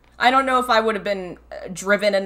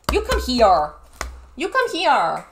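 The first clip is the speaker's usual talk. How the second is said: calling the dog; 4 semitones higher than usual. Real, not acted. Owner summoning her barking dog, baby-talk scolding. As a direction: coax and scold a pet at once.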